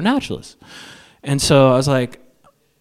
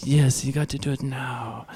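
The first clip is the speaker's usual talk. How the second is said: put-on French Canadian accent; 2 semitones higher, 4 dB quieter than usual. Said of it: "French Canadian from Montreal".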